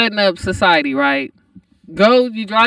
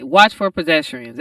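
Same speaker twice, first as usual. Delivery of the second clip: road sign announcement; 7 semitones lower, 5 dB quieter than usual. Retold or imitated. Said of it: "this shit was said".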